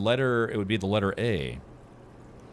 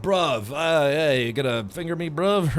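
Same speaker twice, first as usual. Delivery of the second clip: mock British bruv; 4 semitones higher, 5 dB louder than usual. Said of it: "It's not bro, it's bruv".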